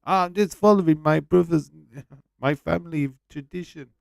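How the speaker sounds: mocking a wrestler's fake Nigerian gimmick, in a put-on voice; mocking Apollo Crews. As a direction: send up the silly backstory. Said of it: "when they made Apollo Crews fucking Nigerian".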